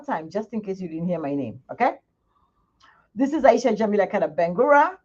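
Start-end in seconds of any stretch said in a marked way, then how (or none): 3.1-5.0 Bangura stretched out with a rising end; emphasis on Bangura. Shown as a demonstration. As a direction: announce the name, lifting and lingering on Bangura. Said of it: "Let me emphasize on that word Bangura".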